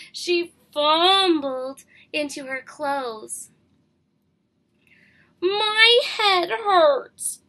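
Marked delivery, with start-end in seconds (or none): 5.4-7.4 slow, high moan. Acted. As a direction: drag it out, slow and pained. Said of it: "she moaned".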